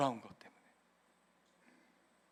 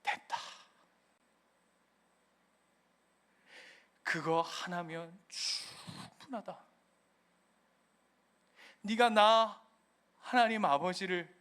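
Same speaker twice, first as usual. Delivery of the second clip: gentle voice of God. Acted. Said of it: "하나님 뭐라 그런다고요?".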